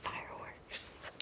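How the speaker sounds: slow repeated whisper of Fireworks; whispered echo. Shown as a demonstration. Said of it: "repeated trigger word".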